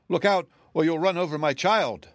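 high-pitched frantic cry; screamed warning. A narrator's reading. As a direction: cry out in panic for a child. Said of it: "screamed a voice".

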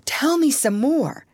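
eager, high-pitched request; excited. A narrator's reading. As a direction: stretch it out with excited interest. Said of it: "all excited".

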